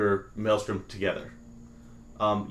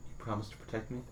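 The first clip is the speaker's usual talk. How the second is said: stage whisper; 12 dB quieter, faster than usual. Acted. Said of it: "stage whisper then".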